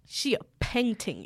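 British roadman accent, put on for a moment; a quick stab at a British rapper's accent. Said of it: "like a British rapper".

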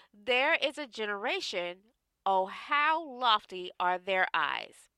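measured, hushed Bible reading; scripture reading. Acted. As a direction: read it like holy scripture. Reads Proverbs aloud.

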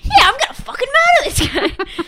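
high, loud pretend rage; mock bloodthirsty shout. Imagining a riled-up churchgoer, high mock shout. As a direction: yell it like a hammed-up zealot, laughter close behind.

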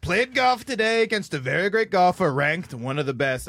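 lightly voiced boastful politician; measured mock statement; hint of a bragging politician, unhurried; Trump. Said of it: "Did you guys see his one today".

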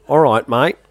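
"All right" with a clear R, Australian; Australian accent, R in "right". Shown as a demonstration. Swapping W for R, Australian accent. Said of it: "change out that W for an R".

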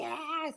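high, mock-intense cry; grito súper intenso. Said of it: "súper intensa". (gritito agudo imitado, súper intenso)

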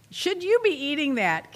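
pointed, judging ask; judgy question. Shown as a demonstration. Host acting out the irritating question, a pointed judge. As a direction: needle them about the food. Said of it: "you know that would irritate somebody".

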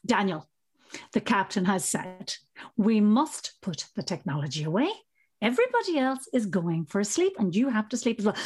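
lightly voiced firm, steady mum tone; a hint of patient parental authority; firm but fair mum. Mother telling son to put away the iPad, firm. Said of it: "my firm but fair mum voice".

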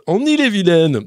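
loud punchy newsreader sign-off; Jean-Pierre Pernaut. Retold or imitated. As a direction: badly imitate a TV news anchor. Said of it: "hier, je faisais Jean-Pierre Pernaut, que je fais très mal".

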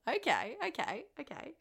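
put-on Australian accent. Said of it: "I don't know why I'm Australian".

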